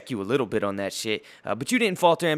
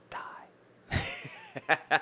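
breathy mock-sinister whisper, much softer; 4 semitones higher, 9 dB quieter than usual. Telling a rapper to just die, in a whisper. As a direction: breathe it out like a joking curse.

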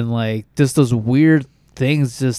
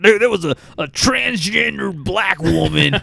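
high-pitched scandalized caricature; hammed-up alarm, dragging out the last words; ranting neighbor; 6 semitones higher than usual. Podcaster imagining his neighbor's sleep paralysis report, scandalized. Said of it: "He's like".

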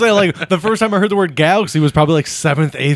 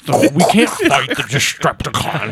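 lightly voiced Sean Connery as Optimus Prime; Sean Connery impression. Podcast host jokingly voicing Optimus Prime, mild Sean Connery. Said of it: "You sound like Sean Connery".

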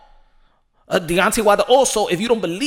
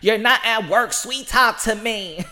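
exasperated wife; 3 semitones higher, slower than usual. Retold or imitated. Wife telling the announcer he's not at work, exasperated. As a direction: whine at him to drop the act. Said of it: "Probably his wife".

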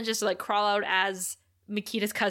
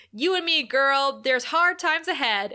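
raised, louder mock villain send-off; villain's parting taunt; 3 semitones higher, 4 dB louder than usual. Host quotes Mister Trick's parting words to Buffy, mock taunting. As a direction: call it out like a retold villain's exit line.

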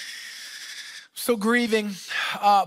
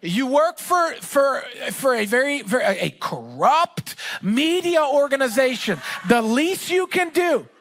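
raised, higher indignant complaint at the friend; mock angry rant; 3 semitones higher than usual. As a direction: lay into him like you're owed a ticket. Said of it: "I'm starting to get angry".

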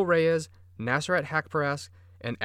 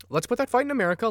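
emphatic restart; 10 semitones higher, much faster than usual. Real, not acted. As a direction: blurt it out again with force. Retakes line after coughing fit.

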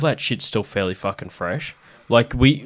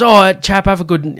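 higher, cheery put-on farewell; lightly voiced chummy goodbye; high friendly impression; 9 semitones higher, 6 dB louder than usual. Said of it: "and then he goes".

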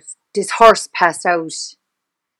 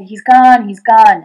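loud retold cry, voice not raised in pitch; retold screaming; 9 dB louder, slower than usual. Gabby on the phone saying he is gone, mock scream. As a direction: imitate her distraught scream at half strength. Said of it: "she was screaming, roaring, crying".

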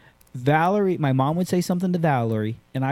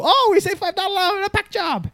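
much higher mock Asian accent. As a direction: retell the jumpers' line in a put-on Asian accent. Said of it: "I sound Asian".

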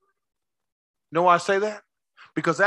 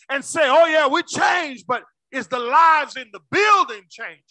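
forceful, raised sermon delivery; impassioned preaching; 4 semitones higher, 3 dB louder than usual. Real, not acted. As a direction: drive it home to the congregation.

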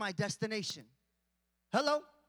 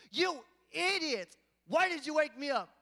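mock mad; 4 semitones higher, 6 dB louder than usual. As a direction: berate them in pretend anger, pitched up. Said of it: "He didn't get mad at them".

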